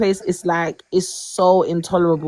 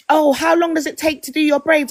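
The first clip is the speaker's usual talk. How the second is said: co-worker imitation; 7 semitones higher than usual. Acting out co-workers' stupid questions.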